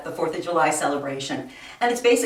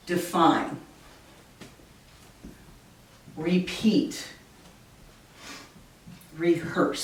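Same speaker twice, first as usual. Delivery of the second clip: deFINE, rePEAT, reHEARSE, accented on the second syllable; weak first, strong second in "define, repeat, rehearse"; "define, repeat, rehearse" as separate words, each weak-strong; second-syllable stress; 3 dB quieter, slower than usual. Shown as a demonstration. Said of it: "unaccented in the first syllable and accented".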